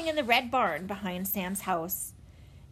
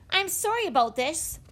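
high, apologetic call; calling back; 9 semitones higher than usual. A narrator's reading. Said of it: "she called over her shoulder".

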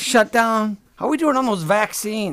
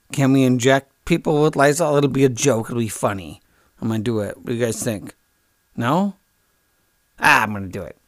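lightly acted, much lower pitch; Trump; 6 semitones lower than usual. Imagined Trump pitches his joke backstage, lightly acted. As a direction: float the idea in a low conspiring voice. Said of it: "I bet it was backstage going".

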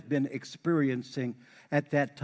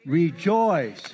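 louder rejoice; 5 dB louder than usual. Shown as a demonstration. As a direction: call out Rejoice with more force. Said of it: "Y'all can do better than that".

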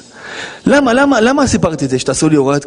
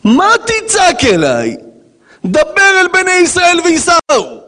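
slow, higher, commanding God; 11 semitones higher, slower than usual. Acted. God answering Moses, slow and commanding. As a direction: boom it out as a divine command. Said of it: "מה עונה לו הקדוש ברוך הוא".

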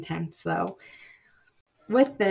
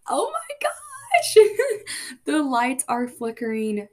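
tearful cry; 7 semitones higher, 5 dB louder, slower than usual. Real, not acted. Lights flicker, overwhelmed moment.

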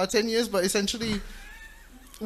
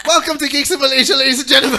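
announcer voice; 5 semitones higher, 6 dB louder, faster than usual. Acted. Opening live show to audience.

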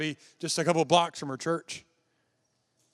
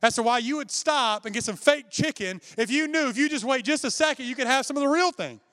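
grandmother's reply; 5 semitones higher than usual. Retold or imitated. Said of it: "She said".

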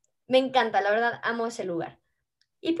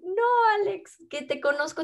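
1 mock bouncer reply; 9 semitones higher than usual. Bouncer quoted greeting dad.

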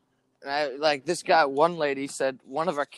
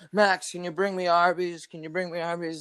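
higher-pitched mock pleading on the phone; imitating needy client; 4 semitones higher than usual. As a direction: play a client pestering for food. Imitating client's demanding phone calls.

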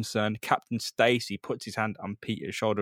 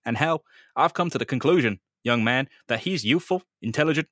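Captain Stacy; 2 semitones higher, 3 dB louder than usual. Acted. Captain Stacy's slideshow speech.

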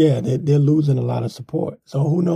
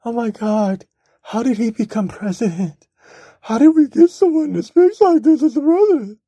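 mock their dismay, pitch soaring higher with each question; mock outraged TV viewer; 9 semitones higher than usual. Vlogger mocking people aghast at Trump on TV, hammed-up and rising much higher. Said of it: "they're just like".

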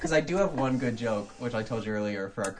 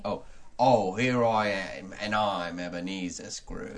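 put-on hammy old-play accent, slowing; Ebenezer Scrooge; 2 semitones lower, slower than usual. Host opening a radio play, as hammy Scrooge. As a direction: announce yourself as a stage miser. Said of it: "I'll be playing the role".

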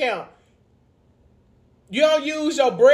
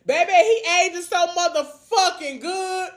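swooning whine; 5 semitones higher than usual. Real, not acted. Swooning over Damon, crying sound.

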